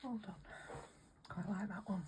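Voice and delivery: holding back hiccups between words; suppressing hiccups. Real, not acted. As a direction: speak through hiccups, quietly. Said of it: "Sorry, I've got hiccups".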